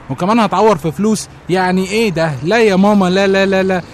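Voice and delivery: rising loud no, no, no; loud refusal. Acted. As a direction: refuse loudly, fed up. Loud refusal over the cost. (رفض عالي ومتكرر)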